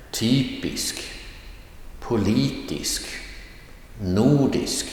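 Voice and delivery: "Typisk. Politisk. Nordisk." as separate Swedish words, each with accent-one tone; accent one demo. Shown as a demonstration. Teacher has learners listen to the words, demonstrating accent one on "Typisk. Politisk. Nordisk.". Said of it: "pronounce the accent one with a rising tone".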